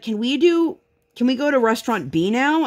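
high small-child voice, lightly mocked; imitating toddler. Mother imitating her toddler daughter asking for restaurant B, high childlike voice. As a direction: mimic a little girl asking sweetly. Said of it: "she's like".

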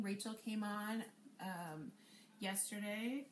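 echoing room sound; big hall echo. Real, not acted. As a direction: voice bouncing back with echo. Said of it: "I'm echoing".

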